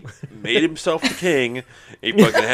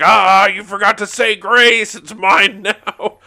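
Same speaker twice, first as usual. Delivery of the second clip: slow, higher gloating devil; Satan voice; 9 semitones higher, 8 dB louder, slower than usual. Retold or imitated. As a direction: taunt like a greedy devil. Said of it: "He's like".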